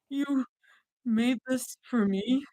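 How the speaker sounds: soft, slow croaking question; croaked. Acted. A hint of Mira's choked croak to her friends. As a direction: barely get the words out, choked up. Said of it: "Mira croaked".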